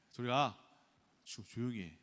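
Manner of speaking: irritated dad shout. Retold or imitated. Dad snapping at kids.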